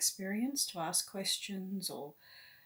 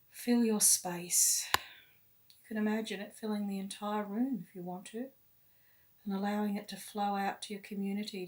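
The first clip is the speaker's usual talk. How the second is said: guided meditation. Real, not acted. Guide leading listeners to love and light, meditative. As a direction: lead them inward unhurriedly, phrase by phrase.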